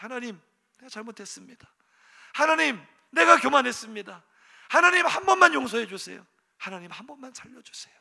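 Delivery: high, urgent pleading prayer. Retold or imitated. King begging God for mercy, pleading. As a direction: beg God for forgiveness. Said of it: "그 속에는 많은 것이 함축".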